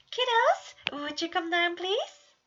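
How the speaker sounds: high, loud sing-song call upstairs. A narrator's reading. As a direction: call the kids down like a cheery dad. Dad calling kids downstairs.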